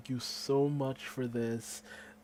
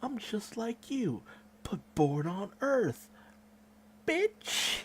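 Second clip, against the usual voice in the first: cocky snap back; 8 semitones higher than usual. Retold or imitated. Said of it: "Gohan snaps back like".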